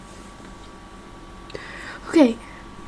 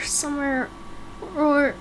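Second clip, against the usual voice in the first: whisper; 10 dB quieter than usual. Acted. Searching alone, trailing into a whisper.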